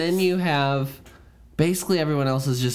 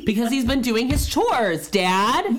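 put-on whiny kid; 9 semitones higher than usual. Ghost voiced as whiny kid.

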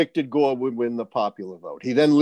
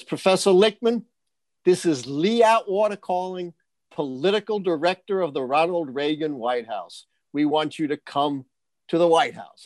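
higher-pitched, lightly imitated Southern caller; Southern accent; 4 semitones higher than usual. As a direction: retell it with a touch of Southern accent. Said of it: "a gentleman with a heavy Southern accent".

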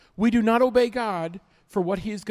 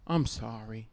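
mock kid apology; 8 semitones lower, 6 dB quieter than usual. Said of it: "I'll go".

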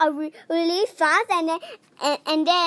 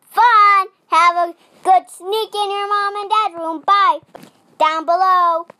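loud goodbye; 2 semitones higher, 7 dB louder than usual. Real, not acted. Kid's loud show sign-off.

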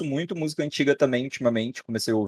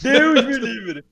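much higher, slow shocked squeal; mock horror; 12 semitones higher, 6 dB louder, much slower than usual. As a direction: recoil in exaggerated disgust.

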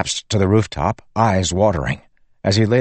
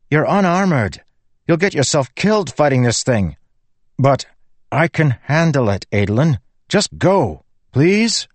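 forceful; 7 semitones higher than usual. Acted. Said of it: "such forceful talk from Renarin".

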